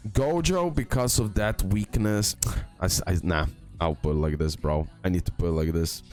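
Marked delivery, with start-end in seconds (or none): none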